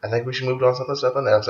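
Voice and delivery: quietly voiced girl. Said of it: "She's like".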